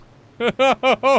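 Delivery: loud high-pitched laugh. Real, not acted. After hot yelling.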